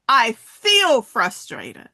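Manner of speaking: I feel frustrated, leaning on feel slowly; slow "I feel frustrated" with weight on "feel"; slow, stressing feel. Shown as a demonstration. Coach guides the audience, slow stress on feel. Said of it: "Say it with me".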